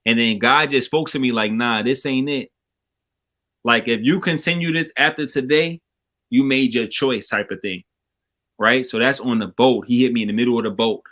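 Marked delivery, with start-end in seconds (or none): 1.5-11.0 uneven volume, dropping in and out; bad connection, words fading; mic cutting out. Real, not acted. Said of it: "your mic is cutting out".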